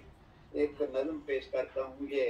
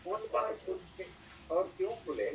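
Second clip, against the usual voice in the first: stately nazm recitation. Acted. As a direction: recite each line with weight and pauses. Poet reciting verses at mushaira.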